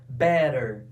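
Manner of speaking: better said "bɛɾer", t flapped; American pronunciation. Shown as a demonstration. Teacher showing the American t to the class. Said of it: "Pronúncia americana".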